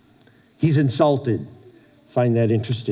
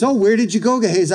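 high, pointed mock-innocent question; knowing question; 7 semitones higher, faster than usual. Prophet quizzing servant Gehazi, mock-innocent. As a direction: ask like you already know.

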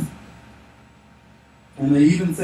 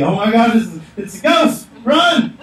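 hammed-up panicked shriek, high and loud; mock terror, shouted high and climbing; high-pitched girl scream; 7 semitones higher, 6 dB louder than usual. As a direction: imitate grown men screaming like girls. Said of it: "probably high-pitched girl screams".

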